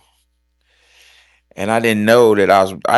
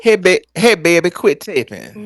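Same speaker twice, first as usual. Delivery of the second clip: dude's voice; 9 semitones higher than usual. Retold or imitated.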